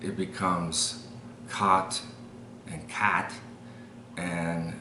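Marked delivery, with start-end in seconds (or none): 1.5-3.3 Chicago "cot and cat", fronted vowels; Chicago accent, cot drifting toward "cat". Shown as a demonstration. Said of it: "when you go to Chicago".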